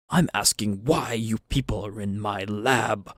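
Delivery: lightly voiced professor confronting intruders; stern, affronted academic character voice; indignant professor.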